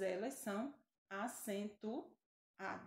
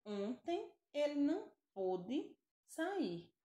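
slow, clear example sentence; 4 semitones higher than usual. Shown as a demonstration. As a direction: read it slowly for the class. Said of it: "Vejam um exemplo". (frase de exemplo lenta e clara)

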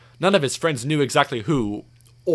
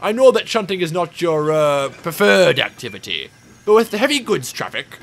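loud, higher-pitched authority; Fat Controller; 4 semitones higher, 6 dB louder than usual. A narrator's reading. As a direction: explain it weightily, hesitating for the tactful word. Fat Controller explains the job.

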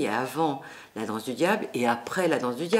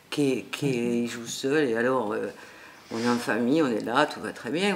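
southern French accent; 3 semitones lower than usual. Shown as a demonstration. Telling the interviewer about the set in a light southern French accent. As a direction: slip into a Midi accent. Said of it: "je vais reprendre mon accent du Sud".

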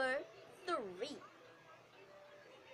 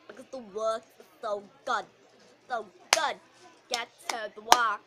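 loud; 4 semitones lower, 9 dB louder than usual. Acted. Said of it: "The boring teacher".

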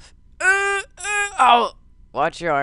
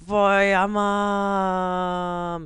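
heroic dad voice; 5 semitones higher, much slower than usual. Pretend. Dad repeats battle cry.

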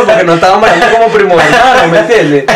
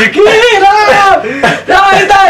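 high-pitched flustered protest, acted out; mock-panicked yelp, pitch leaping up; nervous panic; much slower than usual. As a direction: retell it as a panicked string of refusals. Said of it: "me da un nervio".

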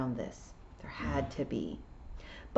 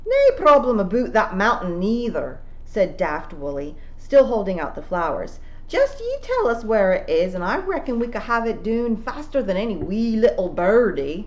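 Scottish pixie; 5 semitones higher, 6 dB louder than usual. A narrator's reading. Daft Woolly speaks.

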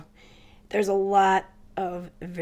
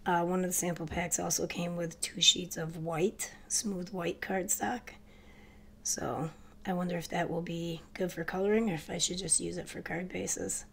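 ordinary delivery

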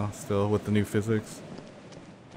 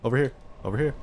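calling out; 4 semitones higher, much faster than usual. Real, not acted. Calling a dog in game.

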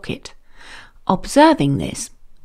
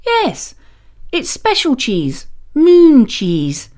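friendly man on the moon; 3 semitones higher than usual. Acted. Moon man offers cheese.

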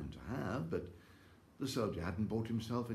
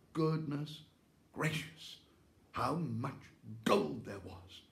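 high gasping wonder at the gold; breathless, slow marvel; amazed delight; 6 semitones higher, slower than usual. A narrator's reading.

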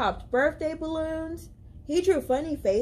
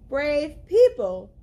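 loud town-crier call; a herald crying out to the crowd; proclaiming; 2 semitones higher, 6 dB louder, slower than usual. Acted. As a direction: announce it to the whole village. Villagers' proclaimed sign.

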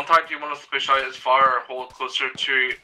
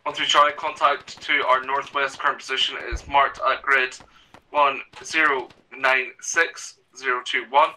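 calm radio call for fire. Acted. Radio contact report with grid.

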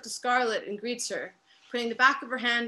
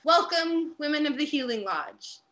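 a hint of a ceremonial welcoming voice; longhouse voice; 5 semitones higher than usual. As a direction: greet them like an elder opening a gathering. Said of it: "in a longhouse voice".

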